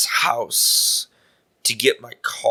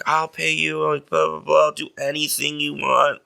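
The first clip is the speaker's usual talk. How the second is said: softer, higher mock-sweet coaxing; imitating sweet pleading; 4 semitones higher, 4 dB quieter than usual. Woman begging a man for a ride, mock-sweet and soft. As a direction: wheedle sweetly, half-acted. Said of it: "nice and sweet".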